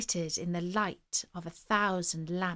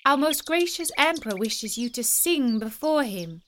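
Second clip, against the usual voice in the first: raised voice; 4 semitones higher, 3 dB louder than usual. Acted. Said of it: "raising her voice".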